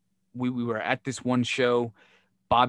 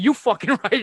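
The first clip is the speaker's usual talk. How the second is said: angry retort; 7 semitones higher, 6 dB louder than usual. Retold or imitated. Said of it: "I was like".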